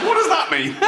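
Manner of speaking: very high voice with mock giggling; jolly fat patient. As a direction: giggle through the question as a merry patient. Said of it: "They're jolly".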